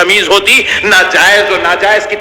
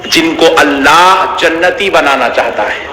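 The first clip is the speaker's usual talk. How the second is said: devotional preaching. Acted. Tender devotional part of sermon.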